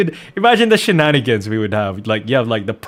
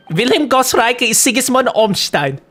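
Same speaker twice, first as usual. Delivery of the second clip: lightly voiced, much higher formal boy; reading a character; 8 semitones higher than usual. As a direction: read it up high like a prim schoolboy.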